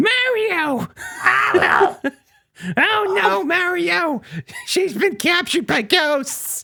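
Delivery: really screechy, very high cartoon voice. Describing how the characters sound in a book, doing Toad's screechy voice. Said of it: "Toad's got the really screechy ass voice".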